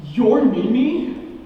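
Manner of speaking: slow stunned question. Acted. Stunned realization.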